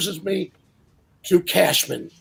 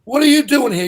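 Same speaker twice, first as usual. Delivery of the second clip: higher and louder, a teasing bark; mock gruff greeting; 6 semitones higher, 6 dB louder than usual. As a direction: call out to an old friend in jest. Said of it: "He looks at me and goes".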